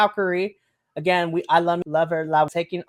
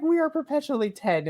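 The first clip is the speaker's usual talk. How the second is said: put-on childish glee; 10 semitones higher than usual. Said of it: "I was like".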